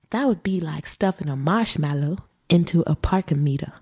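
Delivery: quoting in an attempted Southern accent. Host quotes the accused woman's retort in a Southern accent. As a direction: put on an American Southern accent. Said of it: "I wonder if I can do a southern accent".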